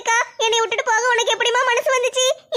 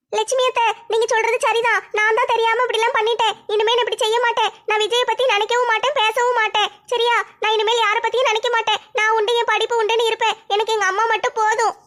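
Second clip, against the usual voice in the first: put-on young girl voice; 2 semitones higher than usual. Girl promises aunt Lakshmi to give up, lightly voiced contrite girl. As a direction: promise you'll behave, in a slightly raised girl's voice.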